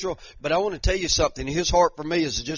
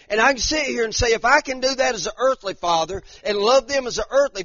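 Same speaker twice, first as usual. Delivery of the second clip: fervent, raised preaching voice; 7 semitones higher, 5 dB louder than usual. Real, not acted. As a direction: testify to the congregation with conviction. Testimony preached with force.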